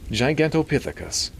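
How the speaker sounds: lightly breathless, high nasally doctor; Milton. A narrator's reading. Doctor answering the priest, mildly breathless. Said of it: "Milton answered breathlessly".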